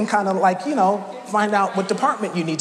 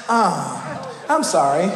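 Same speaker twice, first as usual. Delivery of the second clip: mock robot apology; 3 semitones higher, slower than usual. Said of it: "they really have, like, emotions and voice inflections".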